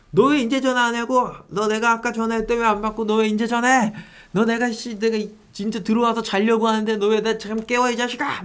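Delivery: imitating a rude buyer ranting, pitched high; mock furious tirade in a put-on voice; angry customer rant. Buyer scolding the seller for waking him, mock furious. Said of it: "진짜 말도 안 되게 저한테 화를 내시는 거예요".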